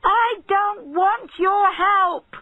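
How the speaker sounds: very slow, loud, high furious yell; furious refusal; angry shout. A narrator's reading. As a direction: refuse him at full voice. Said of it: "he shouted".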